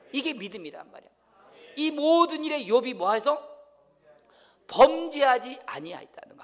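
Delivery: loud, high-pitched pulpit proclamation; forceful preaching. Real, not acted. Pastor telling the congregation everything comes from God, forceful preaching.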